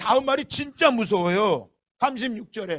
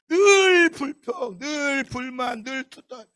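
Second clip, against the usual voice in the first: grumbling; 3 semitones higher, much slower than usual. Shown as a demonstration. Preacher shows what constant complaining is, grumbling. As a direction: grumble it, stretching each word. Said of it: "투덜거리는 거야".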